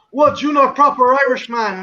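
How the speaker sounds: mildly outraged mock challenge; indignant quote of an appalled man; disgusted disbelief. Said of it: "He was disgusted".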